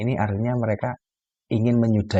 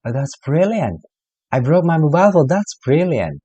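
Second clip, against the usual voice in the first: high, louder ironic "that's brilliant" around the broken phone; mock delight over bad news; sarcastic praise; 8 semitones higher, 5 dB louder than usual. Shown as a demonstration. Teacher playing a friend told his phone broke, sarcastic.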